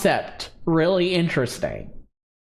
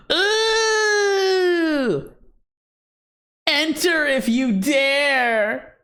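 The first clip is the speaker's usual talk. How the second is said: horror host; 4 semitones higher, much slower than usual. Acted. Echoes spooky ad lines.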